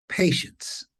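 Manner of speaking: "patience" breathed out almost whispered; soft emphasis. Shown as a demonstration. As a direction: let "patience" fall away to a hush. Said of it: "it is through".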